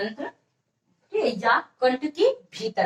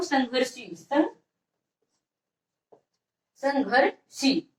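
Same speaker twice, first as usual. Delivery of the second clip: संघर्षी very slowly, in separated parts; slow, broken up; much slower than usual. Shown as a demonstration. Teacher dictates a term to students, slow and broken up. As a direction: break संघर्षी up with pauses for dictation.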